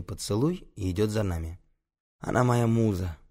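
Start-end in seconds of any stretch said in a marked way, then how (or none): 2.2-3.2 mildly dreamy murmur; understated, lovestruck musing; dreamily. Acted. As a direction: say it as if lost in admiration. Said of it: "мечтательно произносит он".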